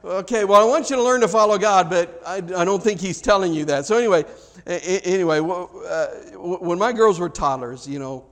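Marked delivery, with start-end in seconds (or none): 0.0-3.8 louder patient dad answering his daughter; a father setting a little girl straight; father's gentle correction. Retold or imitated. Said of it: "It's like".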